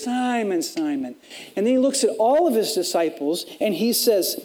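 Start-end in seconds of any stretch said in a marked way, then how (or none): 0.0-1.1 gentle rebuke. Retold or imitated.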